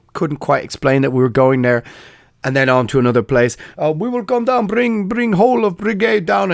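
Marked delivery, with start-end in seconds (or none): 3.8-6.5 much higher mock soldier in broken English; boastful put-on soldier; a hint of an excited Serbian soldier; quoting a soldier. Soldier promises brigade will come.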